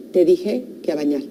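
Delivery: low, measured and firm parental order. Acted. Parent switches off the TV and orders bath time, determined. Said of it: "hasta bajo el, el tono de voz y lo digo determinante".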